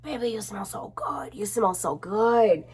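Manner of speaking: put-on whispered baby you smell so good; husband's whisper. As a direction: breathe it close like a husband. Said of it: "My husband, he'd be always like".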